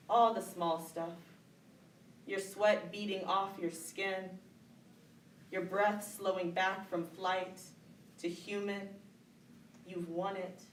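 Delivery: slow, deliberate phrases with long pauses; poem recitation. Acted. Poet reading a favorite poet's poem, slow measured recitation. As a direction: let each image land before the next.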